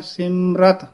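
ਸਿਮਰਤ with no i before the final t; careful pronunciation. Shown as a demonstration. Teacher contrasts ਸਿਮਰਤ with ਸਿਮਰਿਤ. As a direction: end ਸਿਮਰਤ on a bare t. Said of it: "ਉਸ ਦਾ ਉਚਾਰਨ ਹੈ".

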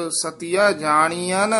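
ਜਾਣੀਅਨ ending on a clearly sounded final n; pronunciation demo. Shown as a demonstration. Teacher showing the student the halant in ਜਾਣੀਅਨ, with the final n sounded. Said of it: "ਨੰਨੇ ਦੇ ਜਿਹੜੇ ਹਲੰਤ ਹਨ, ਇਹ ਉਚਾਰਨ ਕਰਨੇ ਹਨ".

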